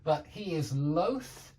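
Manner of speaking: teacher's slow demo; model sentence. Shown as a demonstration. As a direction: stretch out "loath", tongue between teeth on th. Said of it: "That means reluctant".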